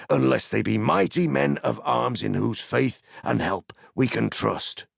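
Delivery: high, formal, suspicious soldier; guard captain. Acted. The leader of the men questioning Gandalf, high and wary. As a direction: challenge the stranger with stern courtesy.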